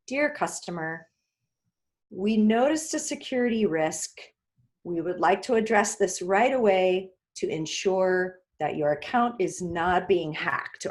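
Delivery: calm, serious and steady. Shown as a demonstration. Telling a customer about a security risk, seriously. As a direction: sober and reassuring, no cheer. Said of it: "We want to sound serious".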